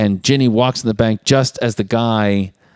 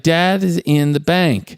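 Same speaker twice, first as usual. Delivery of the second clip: put-on high, slow kid voice; imitated child; 8 semitones higher, slower than usual. Child answering mom about where dad is, mock high and slow. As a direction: spell it out like a little kid.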